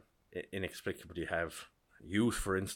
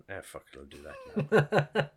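careless shrug; 6 dB louder than usual. Retold or imitated. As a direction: give in to the impulse buy lazily. Retold impulse online purchase.

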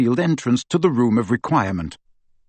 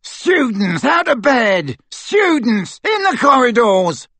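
put-on much higher, an old man's alarmed yell; shouting caretaker; 11 semitones higher, 3 dB louder, slower than usual. A narrator's reading. The caretaker shouting at students out of bed. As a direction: raise the alarm down the corridor.

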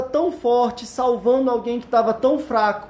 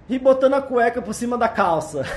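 laughing; 4 dB quieter than usual. Real, not acted. Laughing at own superman joke.

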